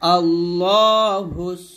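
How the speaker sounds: slow আল্লাহুস সামাদ, final দ bounced; qalqala stop. Shown as a demonstration. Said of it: "এরকম ভাবে পড়বেন".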